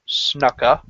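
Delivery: Snuka said as SNUH-kuh; short 'uh' in the first syllable of Snuka; corrected Snuka. Real, not acted. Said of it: "I mispronounced that".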